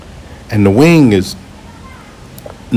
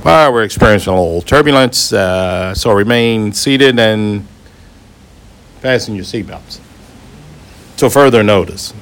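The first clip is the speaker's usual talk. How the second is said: lightly voiced airline pilot on the intercom; captain's announcement voice. Captain to passengers about turbulence, lightly imitated intercom voice. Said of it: "in that voice".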